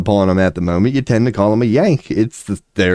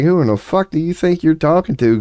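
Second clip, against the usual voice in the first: pitched up, imitating a furious rant; mock angry outburst; 8 semitones higher than usual. Jerry Jones snapping at someone who crossed him, mock angry. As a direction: ham up the billionaire losing his temper. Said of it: "he's known to just get mad and be like".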